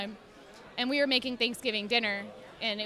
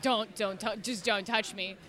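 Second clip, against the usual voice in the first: grumpy cat voice; 3 semitones lower, 4 dB quieter, slower than usual. Retold or imitated. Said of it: "be like".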